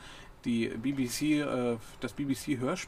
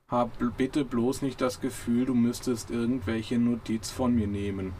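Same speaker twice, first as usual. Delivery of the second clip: slow, dull droning murmur; a lightly voiced gloomy robot mumbling into the dust; slow droning depressed robot; slower than usual. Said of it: "kam ein dumpfes Gebrumme von unten".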